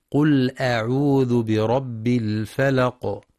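slow tajweed chant; Quran recitation. Shown as a demonstration. Teacher reciting the verse for listeners, slow chant. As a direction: recite slowly, each letter clear.

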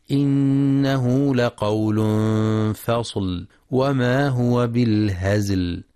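slow, measured tajweed chant; sustained, level-toned tajweed recitation; Quran recitation. Acted. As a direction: recite with long, held vowels and nasal hums.

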